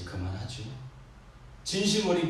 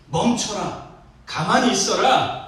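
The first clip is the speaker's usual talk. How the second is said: loud, raised command, drawn out at the end; stern warning; 4 semitones higher, 7 dB louder, slower than usual. Retold or imitated. Preacher as Moses warning people sunk in fear, forceful command. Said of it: "경고합니다".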